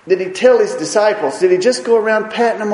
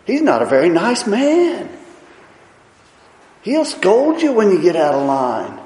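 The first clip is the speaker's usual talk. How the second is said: mock scared; 4 semitones higher, 4 dB louder than usual. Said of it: "take off running scared".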